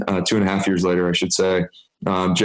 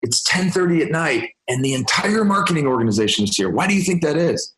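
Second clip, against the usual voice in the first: lightly raised, higher voice for the colleague; a hint of the colleague pointing it out; imitating a colleague; 7 semitones higher than usual. Colleague showing new boss the late-working office, mildly higher imitation. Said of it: "he said".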